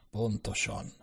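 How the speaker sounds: muttered. A narrator's reading. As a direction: mutter it half to yourself. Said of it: "dünnyögte". (halkan dünnyögve)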